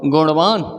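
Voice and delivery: गुणवान as "guṇvaan", curled-tongue ṇ; touch the roof of the mouth on the ण of गुणवान; retroflex ण. Shown as a demonstration. Teacher models गुणवान for learners, retroflex ṇ. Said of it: "क्या बोलेंगे हम?".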